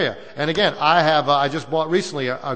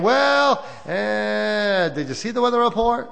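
mock grumble; 7 semitones higher, slower than usual. Mock grumbling about the weather.

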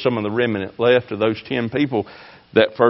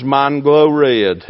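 dragged out, louder; slow emphasis; 5 dB louder, much slower than usual. Acted. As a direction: lean slowly on each word.

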